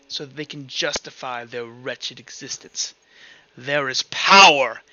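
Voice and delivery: lightly voiced haughty queen, measured and deliberate; imperious queen. Queen dismissing the rebels' notions, imperious. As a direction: declare it as a ruler, swelling on the last word.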